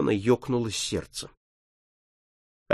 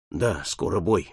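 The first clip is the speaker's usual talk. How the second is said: much lower, softer, slow and heavy; sad reply; 8 semitones lower, 5 dB quieter than usual. Acted. Paul answering his friend, sad and resigned. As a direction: answer as if already resigned to death. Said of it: "полным грусти и нежности".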